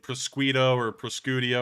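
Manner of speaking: Prosciutto garbled two ways, "pros-KWEE-doh" and "pros-KOO-dee-oh"; fumbled prosciutto. Real, not acted. Host admits he can't get the name, Prosciutto as "pros-KWEE-doh" or "pros-KOO-dee-oh". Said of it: "can't ever get the name of that one down right".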